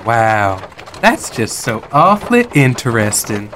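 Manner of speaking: lightly voiced, smitten wonder; infatuated Dolly. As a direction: drink in the answer, mildly enchanted. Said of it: "now clearly very infatuated with".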